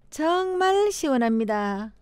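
plain standard Korean; 표준어. Shown as a demonstration. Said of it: "표준어". (표준어 말투로)

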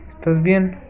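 high, mock-sweet taunt; taunting the hooked survivor, sugary put-on voice. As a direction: coo at the victim in a put-on voice.

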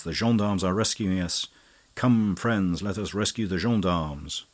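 loud, urgent battle cry to the group; calling friends to fight back, loud and urgent; rallying call. Acted. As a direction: rouse them to charge. Mascari rallying the captives.

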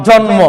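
"জন্ম" as jon-mo, both consonants heard; sounded মফলা. Shown as a demonstration. Teacher gives the class an example, sounded মফলা in জন্ম. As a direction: say জন্ম with a clearly sounded m after the n. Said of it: "তাহলে মফলা উচ্চারণ হবে".

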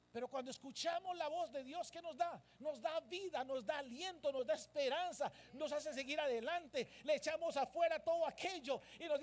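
driving, emphatic sermon delivery; building preaching. Acted. Preacher listing what God's voice gives the church, building. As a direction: pile up the phrases with growing force.

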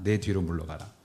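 내 뒤로 leaned on, then 물러가라 falls away; weight on 내 뒤로; stress on 내 뒤로. Shown as a demonstration. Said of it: "여기서 중요한 말은 "내 뒤로"라는".

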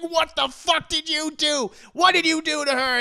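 loud, high demand; hammed-up furious questioning; angry confrontation. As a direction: demand answers in retold outrage. Acting JoJo confronting Dio.

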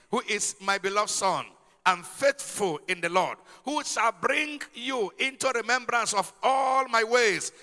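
slow, solemn Bible reading; measured King James reading voice; scripture reading. Acted. Reads scripture aloud slowly.

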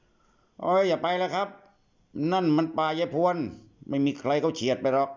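put-on high, slow pleading boy's voice; a scared kid begging him not to go; frightened boy. Boy begs Nachip to avoid Grandma Phuan's haunted forest, high and pleading.

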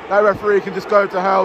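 ordinary delivery

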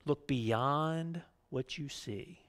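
slow, hushed wise monkey voice; lightly voiced sage, drawn out slowly; a hint of an old mystic; Rafiki's advice. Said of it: "He said".

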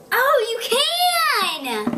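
excited. Real, not acted. Kid excited by lickable thing.

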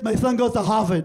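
imitated lisp, SON said as "thon"; lisping mom. Mother bragging about her son's college, lisping. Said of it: "his mom started having a lisp".

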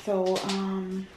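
hushed morning whisper, people asleep. Real, not acted. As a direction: keep it to a whisper. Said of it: "I'm whispering 'cause people still sleep".

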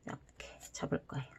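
soft whisper while folding. Real, not acted. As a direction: whisper under your breath. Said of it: "whispering while folding".

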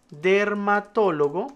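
slow word, syllable by syllable; typing aloud. Shown as a demonstration. Teacher adding a specialty to the list, slow typing-along voice. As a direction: draw it out while keying it in. Types a new entry aloud.

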